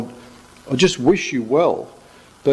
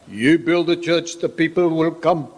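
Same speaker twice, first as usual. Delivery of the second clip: put-on South African Irish accent; 5 semitones higher than usual. Pastor quoting Pastor Godfrey to the congregation, mock South African Irish accent. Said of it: "a bit of South African, bit of Irish".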